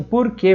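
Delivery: "por quê" with the R of São Paulo city; "por quê" in a paulistano accent; São Paulo capital R. Shown as a demonstration. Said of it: "Eles falam assim".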